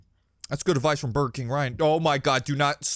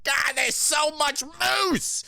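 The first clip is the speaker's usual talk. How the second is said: high, slow, drawn-out groan of dismay; mock exasperation; 13 semitones higher, much slower than usual. A slow high groan over too much moose. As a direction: stretch it out like you're buried in moose. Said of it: "You're like".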